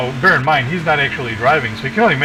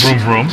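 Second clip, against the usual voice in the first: car engine noises; 4 dB louder than usual. Pretend. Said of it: "making car noises".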